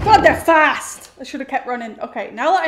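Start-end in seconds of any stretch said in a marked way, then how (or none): 0.0-1.1 scared. Real, not acted. Chased by monsters.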